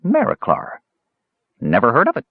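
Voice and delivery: high-pitched kender, cheerfully clueless; breezy, unbothered little voice; happy. A narrator's reading. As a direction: chirp it happily, starting very high. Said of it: "stated the kender happily".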